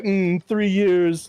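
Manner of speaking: slow, grave pronouncement; lightly voiced Orpheus. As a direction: intone it ominously. Orpheus prophecy.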